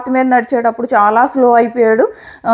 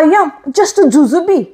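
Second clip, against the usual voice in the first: mocking whine; 2 semitones higher than usual. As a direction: parody her self-pity in a dragged-out whine. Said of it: "మళ్ళీ అంటుంది".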